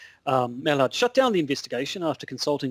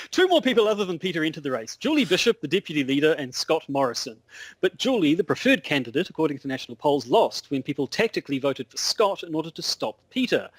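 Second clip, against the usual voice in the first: put-on Aussie political reporter; mock Australian correspondent; Australian accent. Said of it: "very hard to sort of abstract an Australian accent".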